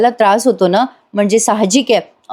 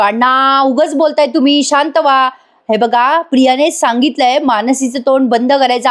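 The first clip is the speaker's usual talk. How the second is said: higher-pitched, mildly vexed protest; acted irritation; 5 semitones higher than usual. Sachin telling his boss to calm down, acted irritation. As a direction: protest with a touch of exasperation. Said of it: "आता सचिन चिडतो आणि म्हणतो".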